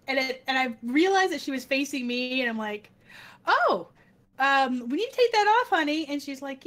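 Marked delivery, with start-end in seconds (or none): 3.4-6.0 raised, louder mock realization; startled correction. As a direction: act out catching a child's mistake. Acting realization, then gently correcting child.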